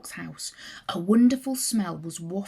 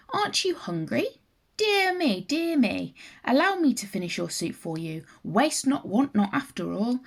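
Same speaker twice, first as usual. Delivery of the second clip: higher, falsely sweet fox fussing over a guest; sly fox fussing; 4 semitones higher than usual. Acted. Fox to Stork, pretending to worry she is hungry, higher mock-sweet fussing. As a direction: coo with fake concern, like a cunning fox.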